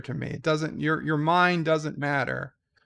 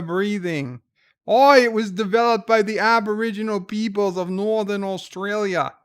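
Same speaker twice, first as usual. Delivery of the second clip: mock-Australian explainer voice; Ozzy O'Prey. Australian cousin reading out Wikipedia, in a put-on Australian accent. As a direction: read it out as a hammed-up Australian. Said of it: "I'm the one that's Australian".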